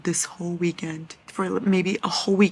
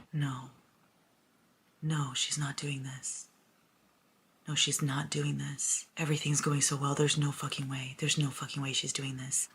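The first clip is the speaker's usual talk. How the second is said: hushed disbelief; 9 dB quieter than usual. Real, not acted. Reader dreading the plot turn as all goes well, hushed disbelief. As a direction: plead quietly against what is coming.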